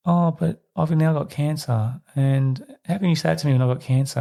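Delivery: guilt-tripping mum. Retold or imitated. Retold film mum fakes illness to guilt her daughter, mock-wounded.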